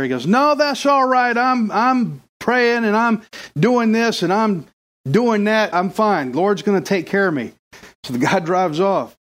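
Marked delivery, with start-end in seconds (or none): 0.3-7.5 stubborn man, voiced higher, waving off help; stubborn refusal, high. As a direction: brush off the rescuers in a high voice.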